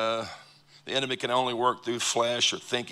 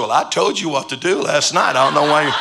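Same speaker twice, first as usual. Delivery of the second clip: laughing retort; 4 semitones higher, 9 dB louder than usual. Retold or imitated. Teasing the offended assistant.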